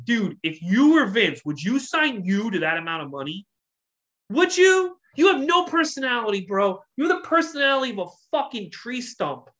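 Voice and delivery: mock telling-off of a wrestler; mock scolding rant.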